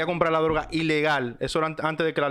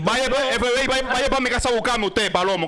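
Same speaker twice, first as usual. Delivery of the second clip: put-on old man voice; 6 semitones higher than usual. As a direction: talk back like a cocky old man. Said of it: "ya hablen el viejito".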